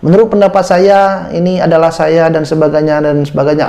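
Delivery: words run together with no pause at all; rushed, no pauses. Shown as a demonstration. Candidate rushing an interview answer without pausing. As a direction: rattle the answer off without a breath. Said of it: "tidak ada jeda".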